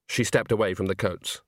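plain reading voice

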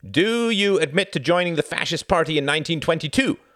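high, loud interrogating demand. A narrator's reading. Jorgen interrogates the Count from his paper, loud demand. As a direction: demand an admission at full volume. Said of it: "demanded Jorgen".

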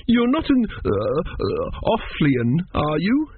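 put-on high, halting child's question; wary small boy. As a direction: falter over it like a nervous little boy. Arthur warily asks.

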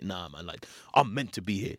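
stern. Retold or imitated. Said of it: "his face was just so stern".

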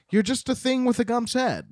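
Dorothy. Retold or imitated. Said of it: "Dorothy's like".

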